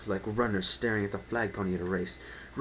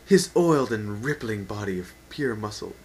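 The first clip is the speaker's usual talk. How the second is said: rereading while holding back a laugh; suppressed giggle retake; trying again; 7 dB louder than usual. Real, not acted. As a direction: keep a straight face, barely. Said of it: "Let me try again".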